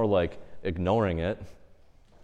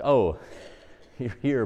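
lightly amused, unbothered greeting; note an unwelcome guest and shrug; dismissive acknowledgement; 3 semitones higher than usual. Acted. Saint noticing the devil, lightly dismissive. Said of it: "Kind of almost like a dismissive acknowledgement".

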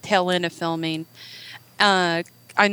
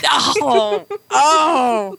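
surprised; 5 semitones higher, 4 dB louder than usual. Real, not acted. Reacting to husband's confession.

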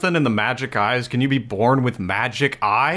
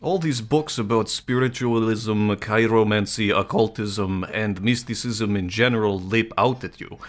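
Russian Orthodox priest voice. Pretend. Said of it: "can you read this in a Russian Orthodox priest voice?".

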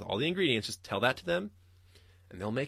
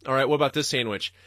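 mock customer; 3 semitones higher, 6 dB louder than usual. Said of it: "exactly what he was doing".

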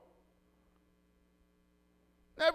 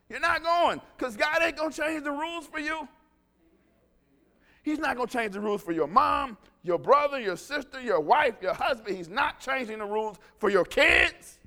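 mock ambassador warning; 5 dB louder than usual. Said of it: "I'm trying to say".

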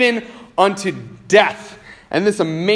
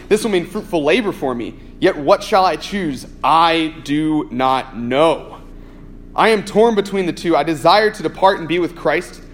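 scripture reading; 2 semitones lower than usual. Acted. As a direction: let each phrase of the verse land. Pastor reads Philippians chapter one.

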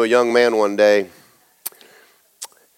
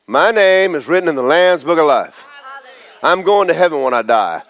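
confident declaration; 2 semitones higher than usual. Shown as a demonstration. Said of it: "the first thing out of your mouth ought to be".

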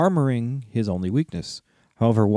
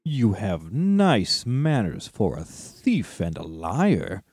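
growling dragon guarding treasure; much slower than usual. Acted. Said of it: "said the dragon".

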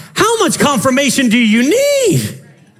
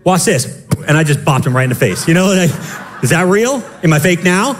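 mock sassy Jesus; 3 semitones lower than usual. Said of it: "I'd be like".

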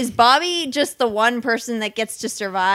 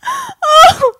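laughing; 11 dB louder, much slower than usual. Real, not acted. Laughing fit after dark joke.

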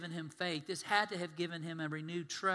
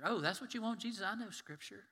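higher-pitched taunt with a hint of the devil; lightly voiced Satan; 3 semitones higher, 4 dB quieter than usual. Satan answers Jesus with Scripture, lightly taunting. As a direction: lightly play the tempter showing off. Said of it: "now Satan's quoting Scripture".

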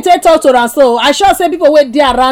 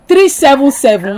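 slow, measured digit by digit; slow dictation. Real, not acted. Host giving caller a phone number, slow dictation. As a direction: read the number out slowly for note-taking.

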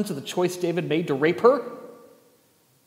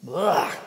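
disgusted ugh; 3 semitones higher, 5 dB louder than usual. Real, not acted. Disgust at own sarcastic line.

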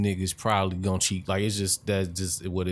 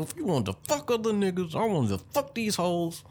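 mock furious rant; 11 semitones higher than usual. Mock rant at a cheating girlfriend.

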